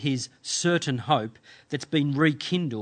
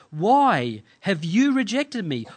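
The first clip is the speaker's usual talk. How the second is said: higher, slower questioning of God; bold plea; 4 semitones higher, 3 dB louder than usual. Acted. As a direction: put the question boldly to God, drawn out. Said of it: "he's even bold enough to ask God".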